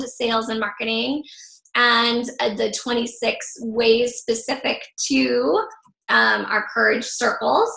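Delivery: slightly hoarse, voice fading; straining a tired voice; losing voice. Real, not acted. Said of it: "I keep losing my voice a little bit".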